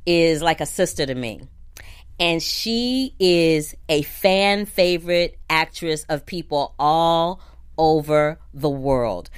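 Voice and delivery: choked-up whispered praise, slow; barely holding back real tears; tearful whisper. Real, not acted. Host introducing her dear friend, choked up in a slow whisper. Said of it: "I'm gonna cry".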